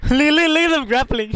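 laughing. Real, not acted. Laughing at enemies grappling.

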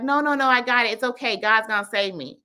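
mild mock assurance; confident refusal. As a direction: brush off the rescuers, pitch lifted. Voices man refusing the boat.

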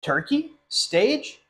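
rising, alarmed questions; startled questions. Acted. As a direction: react in disbelief. Turkey hears about the play.

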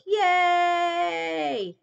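high cheery yay; happy cheer. Real, not acted. Doing the happy emote for the hostess, high cheer.

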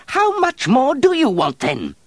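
high, loud exasperated shout. Acted. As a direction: yell it at her, fed up. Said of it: "Terrier shouted at her".

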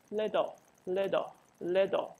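little with the t as a quick flap; flapped t. Shown as a demonstration. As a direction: tap the tongue once for the t in little. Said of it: "它是一个flap的声音".

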